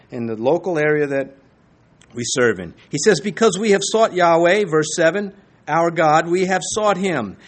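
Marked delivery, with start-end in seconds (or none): 3.2-7.4 firm, louder declaration quoted from scripture; emphatic. Retold or imitated. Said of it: "he's emphatic about this".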